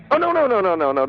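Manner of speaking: high-pitched burst of dismay; distraught, rapid-fire denial; distressed. Acted. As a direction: protest in sudden high panic. Caller suddenly remembers brother is dead.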